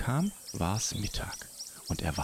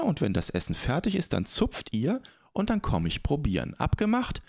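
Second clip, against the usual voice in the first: bright spider voice; 6 semitones higher than usual. Acted. Spider makes a deal.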